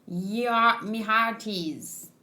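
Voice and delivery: put-on trying out a light pirate accent; half-hearted pirate accent, slowing at the end. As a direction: roll out a tentative pirate accent. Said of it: "How's a pirate accent?".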